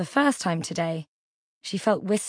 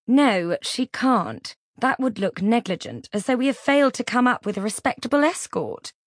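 sharp retort; 5 semitones higher, 4 dB louder than usual. Acted. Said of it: "Vivian shot back".

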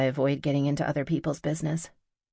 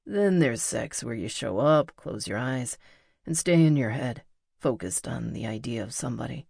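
lower, measured voice for the musician; intimate male lover, earnest; 3 semitones lower than usual. Acted. Musician describes good sex to her, low and intimate. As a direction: bring the pitch down and explain it intimately. Narrator voices Pete explaining.

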